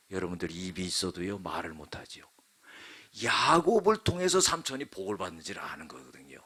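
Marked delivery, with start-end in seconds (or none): none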